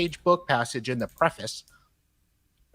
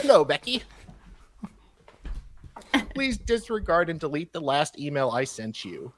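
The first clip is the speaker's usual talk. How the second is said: attempted British accent; 3 semitones higher than usual. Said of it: "I can't do a British accent".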